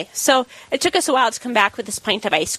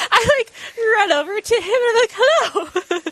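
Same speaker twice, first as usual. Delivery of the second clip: eager excitement; 11 semitones higher than usual. Retold or imitated. Eagerly running over to greet.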